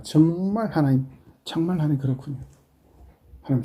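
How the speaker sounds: humble prayer. Acted. Acted humble prayer to God.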